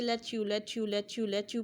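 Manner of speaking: "let you" repeated quickly so it slides into "letchu"; fast repetition. Shown as a demonstration. Teacher drilling let you quickly for students. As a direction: rattle off let you fast until the ch appears. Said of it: "तीन से ज़्यादा बार पढ़ें तेज़ी से".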